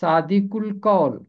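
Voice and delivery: सादिकुल कौल split as सादि-कुल कौल, the क joined to ल; teacher shows where सादिकुल कौल breaks; model pronunciation. Shown as a demonstration. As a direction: keep the क of सादिकुल off the first part. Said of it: "इसका तलफ़ुज़ होगा".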